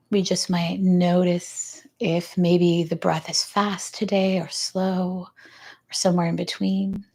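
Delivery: calm, even pitch with long pauses; guided grounding. Real, not acted. Yoga teacher guiding the class to notice their breath, calm guided grounding. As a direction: ease them into stillness, unhurried.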